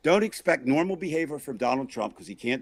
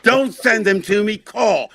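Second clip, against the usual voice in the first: repeating himself loudly; 7 semitones higher, 7 dB louder than usual. Retold or imitated. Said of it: "I said".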